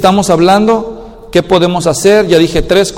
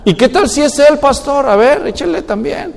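laughing retort; 7 semitones higher than usual. Acted. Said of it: "wife retorts to pastor".

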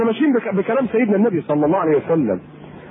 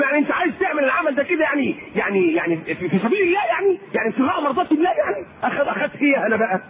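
mocking skeptic; 4 semitones higher than usual. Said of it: "يقول".

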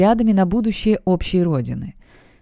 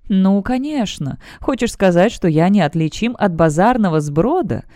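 offended. Acted. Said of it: "с оскорблённым видом спросил информатор".

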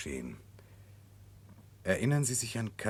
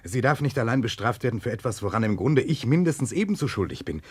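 louder, fervent protest; passionate insistence; 4 semitones higher, 5 dB louder than usual. Acted. Nechludow protests to the prosecutor that he shares her guilt, loud and fervent. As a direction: fight back with conviction.

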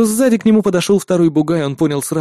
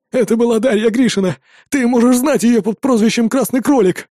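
rapid patter; 8 semitones higher than usual. Acted. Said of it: "скороговоркой выпалил Наумов".

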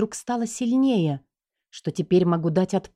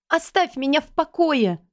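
desperate plea; 8 semitones higher than usual. A narrator's reading. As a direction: beg him through the door to leave. Wife fleeing enraged husband. (жена в страхе кричит мужу через дверь)

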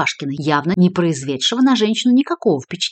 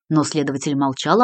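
usual speaking voice

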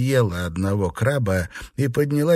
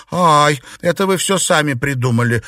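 higher, louder flustered cry; flustered maid, higher and louder; embarrassed exclamation; 6 semitones higher, 6 dB louder than usual. A narrator's reading. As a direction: protest in embarrassment, voice jumping up. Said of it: "воскликнула Юань-Ян".

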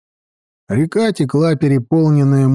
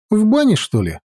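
puzzled question; 8 semitones higher than usual. Acted. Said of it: "не понял Пончик".

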